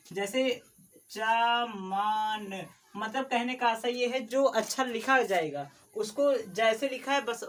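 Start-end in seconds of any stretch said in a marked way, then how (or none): 1.1-2.6 चमान spelled out slowly, each syllable soft; चमान spoken slowly without force; soft drawn-out syllables. Shown as a demonstration. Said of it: "उसको धीरे से बोलिएगा".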